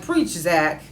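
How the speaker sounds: excited cheering. Real, not acted. Cheers on a character's blunt words.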